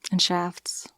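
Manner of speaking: whispered innuendo; breathy joking whisper; sly whisper. Acted. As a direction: murmur it like a naughty aside. Innuendo tagged on.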